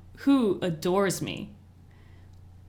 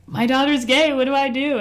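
mock panicked mother, higher and louder; hysterical mom; 7 semitones higher, 6 dB louder than usual. Mother panicking to her doctor about her daughter, mock hysterical. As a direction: imitate a frantic mom begging for help. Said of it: "she was pretty hysterical".

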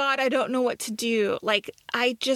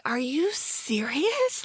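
stunned disbelief; 4 semitones higher, much slower than usual. Retold or imitated. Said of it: "And I'm like".

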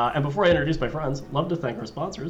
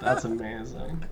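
laughing; slower than usual. Real, not acted. Laughing reaction.

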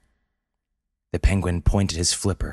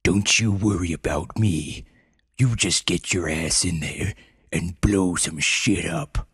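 gruff commanding voice. Acted. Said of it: "the penguin's gruff and commanding voice in her mind".

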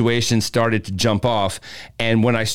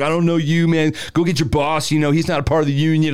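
retold brush-off, pitched up and pushy; throwing attitude; 4 semitones higher than usual. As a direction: toss it off with mock attitude. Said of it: "throwing attitude stuff".

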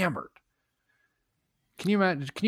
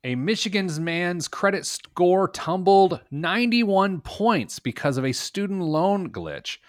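light mock Cockney accent, pitched up; 8 semitones higher than usual. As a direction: read the news in a faint Cockney accent. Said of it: "That was my Cockney accent".

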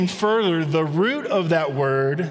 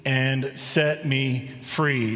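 slow scripture reading; slower than usual. Shown as a demonstration. Pastor reading the key verse to the congregation, slow and solemn. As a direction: read the verse slow and deliberate, weighing each word.

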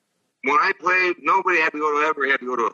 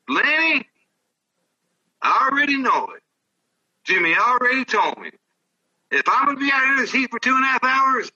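umpire's reply; 10 semitones higher than usual. Retold or imitated. Umpire's reply voiced in story.

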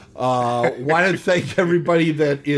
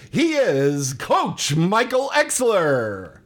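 announcer voice; 3 semitones higher, much slower than usual. Acted. Big announcer intro.

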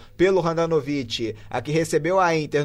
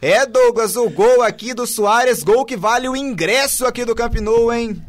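elated commentary; 4 semitones higher, 3 dB louder than usual. Real, not acted. Narrator still elated after goal.

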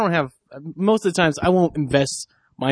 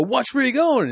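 high-pitched retold challenge; mock confrontational; 10 semitones higher than usual. Bumped stranger trying to start trouble at a bar, mock confrontational. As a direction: snap it like someone looking for trouble.

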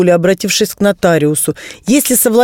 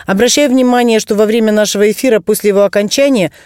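infomercial. Acted. Guest plugs hotline on air.

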